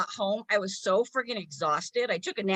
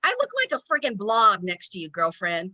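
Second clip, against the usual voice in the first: mock self-talk to a skinny friend; 2 semitones higher than usual. Mocking herself to the skinny girl next to her. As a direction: sneer at the skinny girl then mock yourself. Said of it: "And I'm like".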